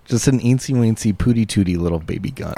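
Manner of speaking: put-on cooing baby talk. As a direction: coo it like to an infant.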